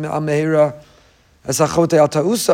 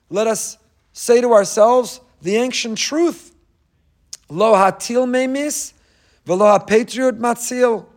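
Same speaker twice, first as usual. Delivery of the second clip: solemn preaching; 5 semitones higher, slower than usual. Acted. Quoting the Pnei Menachem solemnly.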